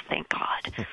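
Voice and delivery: breathy relieved whisper; whispered aside. Real, not acted. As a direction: murmur it under your breath. Relieved aside after stage-fright story.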